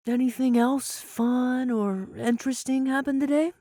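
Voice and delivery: mother asking her son about his day; lightly voiced mom. A narrator's reading.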